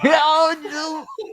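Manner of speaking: loud, high mock Kerry cry; hammed-up Kerry wail; Kerry accent. Shown as a demonstration. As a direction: call out in an exaggerated Kerry accent. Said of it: "uh, Kerry accent".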